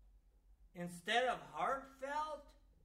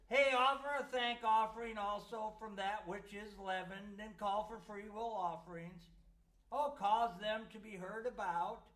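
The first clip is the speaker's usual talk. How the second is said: mocking scripture reading; sarcastic reading. Shown as a demonstration. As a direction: read it with a sneer. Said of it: "Did you notice how I tried to read that sarcastically?".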